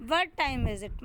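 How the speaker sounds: "time" as the main word, falling after it; stress on TIME. Shown as a demonstration. Teacher repeating the word stress example, "time" stressed. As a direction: put the weight on "time". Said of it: "stress word है टाइम".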